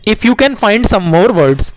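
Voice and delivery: slow clear reading. Shown as a demonstration. Teacher reading the task to children slowly.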